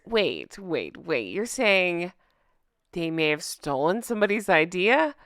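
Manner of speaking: mock shock, dripping sarcasm; sarcastic. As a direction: feign surprise sarcastically. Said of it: "That's sarcasm, by the way".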